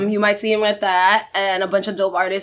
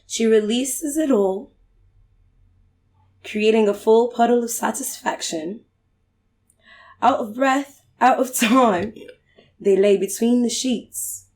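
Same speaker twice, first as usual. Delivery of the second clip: poetry reading; 3 dB quieter than usual. Pretend. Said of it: "Do it in the British accent".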